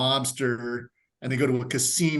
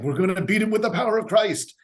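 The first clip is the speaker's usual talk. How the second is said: earnest priest; 8 semitones higher, 4 dB louder, faster than usual. Retold or imitated. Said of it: "it's like".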